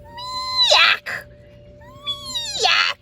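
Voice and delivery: high yelping squawk; a duckling failing to meow; duckling trying to meow; botched meow. Acted. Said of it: "the best he could do was".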